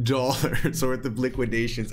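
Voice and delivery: nervous, suppressed laugh under the words; real stifled nervous chuckle; holding back laughter. Real, not acted. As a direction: try not to laugh while reporting it. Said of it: "I'm trying not to laugh".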